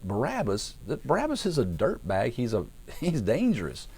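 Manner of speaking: high-pitched incredulous protest; mock disbelief. Preacher voicing Pilate answering the crowd, high incredulous protest. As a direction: squeak the question, then protest in amazement.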